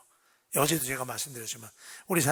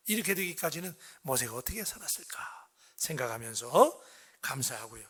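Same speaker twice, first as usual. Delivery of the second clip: usual speaking voice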